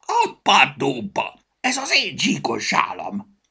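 loud high indignant outburst. A narrator's reading. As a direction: blurt out in shock at the stolen scarf. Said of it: "szakadt ki Petyából".

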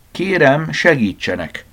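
spelling out a notice, high start; lightly acted plea read from a poster; reading out aloud. A narrator's reading. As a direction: read it out word by word. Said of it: "betűzte hangosan".

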